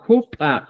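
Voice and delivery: "jupa" opening on an aspirated J; pronounced with J. Shown as a demonstration. Teacher repeating what they said, "jupa" with J. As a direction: put a J sound before U in "jupa". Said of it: "lo que decían".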